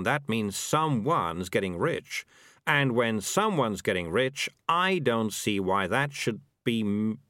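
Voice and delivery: lightly voiced sly schemer, slow and deliberate; a slow, reasoning character voice; scheming Morris. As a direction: draw out each step of the scheme slowly.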